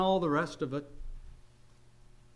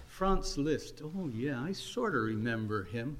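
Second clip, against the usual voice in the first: offhand dismissal; 6 semitones lower, 6 dB quieter than usual. Retold or imitated. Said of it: "Would she talk like that?".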